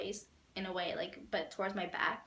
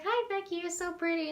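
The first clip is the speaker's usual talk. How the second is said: much higher excited gush; 8 semitones higher than usual. Retold or imitated. Fan gushing to his mom, much higher and excited.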